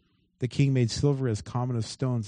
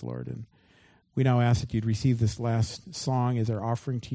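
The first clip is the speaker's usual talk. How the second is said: closing prayer. Acted. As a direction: pray over the congregation, gently.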